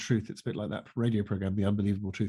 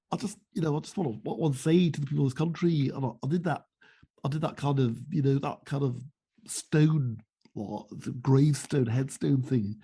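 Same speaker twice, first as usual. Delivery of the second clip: Ed Miliband impression, lightly done; a hint of a strained Labour leader; strangled voice. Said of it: "sound like a version of Blair with a slightly strangled voice".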